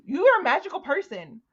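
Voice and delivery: loud, exasperated call-out; indignant rant. Retold or imitated. Podcaster ranting at a character's hypocrisy, exasperated. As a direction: scold her like you can't believe it. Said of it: "And I'm like".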